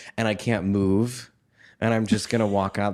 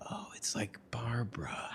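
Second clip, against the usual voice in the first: very soft, voiceless whisper; awed whisper; 16 dB quieter than usual. Retold or imitated. Recalling the Barbra videos, whispered realisation. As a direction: whisper it like a private discovery.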